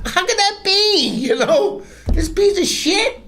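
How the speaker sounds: high, laughing incredulity; laughing disbelief. Retold or imitated. Continued disbelief.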